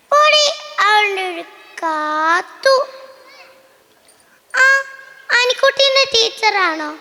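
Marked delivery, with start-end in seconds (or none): 0.1-2.7 angry shout. Acted. Mother shouting at daughter asking for phone. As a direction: snap at the child to get lost.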